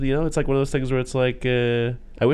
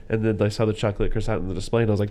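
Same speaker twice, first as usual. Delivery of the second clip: usual speaking voice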